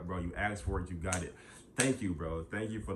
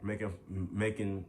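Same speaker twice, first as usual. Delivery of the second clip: scolding; 4 dB louder than usual. Real, not acted. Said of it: "now I'm getting on y'all asses".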